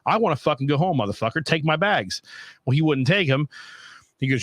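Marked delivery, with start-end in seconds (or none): 0.1-2.2 higher-pitched, mild mock yell; exasperated rant, retold with raised pitch; retold angry yelling. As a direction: re-enact an irate demand without full volume. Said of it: "I was like, I was yelling".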